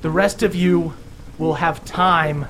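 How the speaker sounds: a lightly booming, solemn pronouncement. Acted. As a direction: proclaim it like a stern deity. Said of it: "continues with a booming voice and goes".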